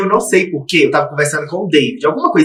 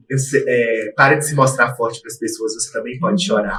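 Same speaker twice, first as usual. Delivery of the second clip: soft comforting friend; 7 semitones lower, 7 dB quieter than usual. Retold or imitated. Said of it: "Falou assim".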